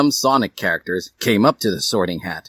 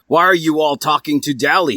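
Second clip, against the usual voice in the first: jealous; 7 semitones higher, 4 dB louder than usual. Acted. Jealous Edward.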